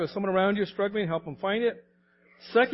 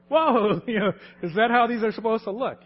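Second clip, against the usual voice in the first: amazed; 3 semitones higher, 5 dB louder than usual. Retold or imitated. Retold amazement at cleaned glasses.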